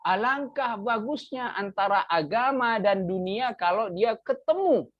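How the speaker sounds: exclamation of wonder. Shown as a demonstration. Teacher translating an example of amazement, exclamation of wonder. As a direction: demonstrate amazement at something fine. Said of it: "lit ta'ajub ya".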